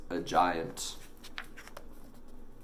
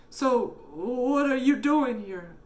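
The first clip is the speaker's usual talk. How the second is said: dad voice; 4 dB louder, slower than usual. A narrator's reading. Dad asks.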